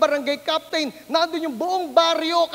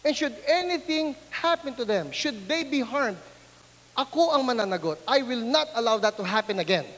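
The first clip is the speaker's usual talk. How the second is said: stern principal lecture; 3 dB quieter than usual. Retold or imitated. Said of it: "sinermonan ako".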